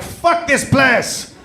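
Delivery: high, slow mock French yell of disgust; mock French sailor. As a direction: ham up a French sailor fed up with the island. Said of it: "Dufrench was like".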